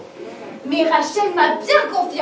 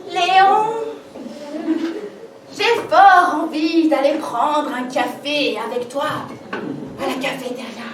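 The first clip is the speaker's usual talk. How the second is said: awkward attempt at a purr; clumsy try at seduction; sultry voice; 2 semitones lower than usual. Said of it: "ne pas oublier la voix langoureuse".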